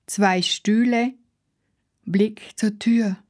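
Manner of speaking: whispered observation. Acted. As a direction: breathe the words, barely voiced. Innerer Blick, geflüstert. (geflüstert)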